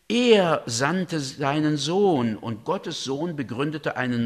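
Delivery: slow, weighty recital; solemn epilogue reading. Acted. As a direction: intone the epilogue slowly like a chorus. (der Epilog, feierlich und langsam vorgelesen)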